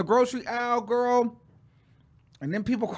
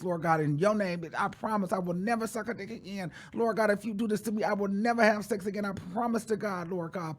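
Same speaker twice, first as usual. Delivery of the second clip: softly muttered desperate bargaining with God; hushed, acted-out prayer; begging prayer; 6 dB quieter than usual. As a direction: plead under your breath, promise after promise. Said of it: "I was begging. I was pleading".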